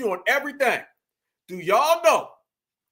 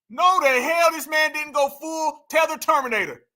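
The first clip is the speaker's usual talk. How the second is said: outraged shout; 3 semitones higher than usual. Real, not acted. Ranting at the rapper's clip, shouting. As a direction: yell it in disbelief.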